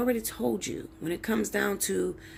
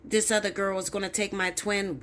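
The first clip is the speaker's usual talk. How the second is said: mocking imitation. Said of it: "I hear people talk like that".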